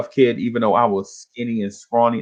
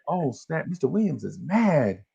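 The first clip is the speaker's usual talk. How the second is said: hushed realization; 7 dB quieter than usual. Retold or imitated. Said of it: "And I'm like".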